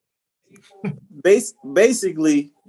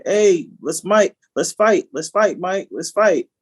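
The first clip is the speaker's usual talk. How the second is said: put-on drunk guy picking a fight; 4 semitones higher than usual. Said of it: "I guess he was a little drunk".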